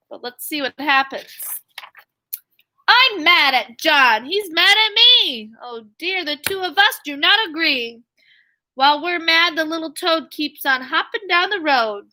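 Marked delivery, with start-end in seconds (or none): 2.9-12.0 lively, sing-song storybook read; bouncy picture-book reading voice; reading to children. A narrator's reading. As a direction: read the rhyme aloud to young kids. Teacher reading picture book aloud.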